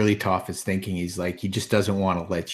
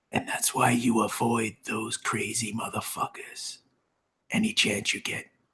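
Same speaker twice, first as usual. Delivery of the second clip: hushed, very quiet, leaned-in whisper; 3 semitones higher than usual. A character leans in close to two companions once out of earshot, whispering very quietly. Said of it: "lean in even closer and whisper very quietly".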